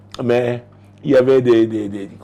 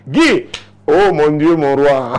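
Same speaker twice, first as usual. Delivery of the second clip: higher, slow, louder mock moan of delight; mock swooning wife; 5 semitones higher, 7 dB louder, slower than usual. Wife to husband, mock swooning adoration. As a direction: ham up a wife's adoring cry. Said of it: "leur intimité était".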